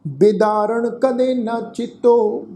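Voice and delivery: slow, measured chant of the verse; scripture recitation. Acted. Teacher reciting the shalok for the sangat to repeat, slow chant. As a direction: intone each line slowly for them to follow.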